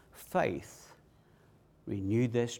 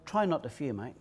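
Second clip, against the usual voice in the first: mild mock soft; 5 dB quieter than usual. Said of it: "He didn't say to Jairus".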